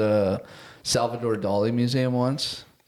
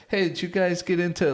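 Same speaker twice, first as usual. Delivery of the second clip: higher-pitched, lightly voiced painting subject; lightly put-on higher voice for a figure; painting character voice; 6 semitones higher than usual. Podcaster voices painted wives quizzing tiny husbands, painting character voice. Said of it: "they all have voices".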